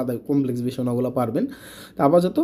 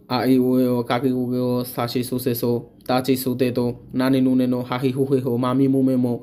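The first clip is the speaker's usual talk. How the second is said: rote recitation; 2 semitones lower than usual. Shown as a demonstration. Teacher shows students how to recite all kana in a row. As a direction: rattle off the kana chart in one steady run. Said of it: "এরকমভাবে আপনার ছেচল্লিশটা টানা মুখস্থ রাখতে হবে".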